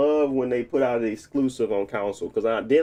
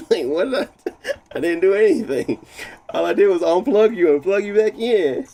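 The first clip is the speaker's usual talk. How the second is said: louder, higher, fed-up complaint; exasperated protest; 7 semitones higher, 6 dB louder than usual. Real, not acted. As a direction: protest loudly that he did nothing. Defending himself to his PC.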